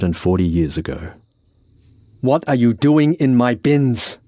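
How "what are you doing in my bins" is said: a touch higher and slower, affronted; lightly voiced Francis, indignant. Francis confronts a stranger in his bins, indignant. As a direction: demand it with mild indignation.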